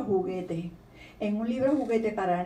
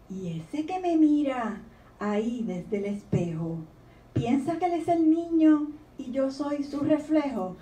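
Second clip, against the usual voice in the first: gentle storybook reading voice; reading a poem aloud; 3 semitones higher than usual. Acted. Author reading her poem to the audience, gently. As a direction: read the child's questions like a poem.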